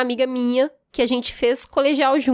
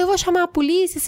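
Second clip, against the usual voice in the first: furious outburst; 7 semitones higher, faster than usual. Retold or imitated. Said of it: "Fiquei louca na hora".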